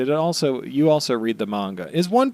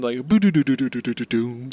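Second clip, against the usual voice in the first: hummed game show jingle. Retold or imitated. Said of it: "Who Wants to Be a Millionaire sound".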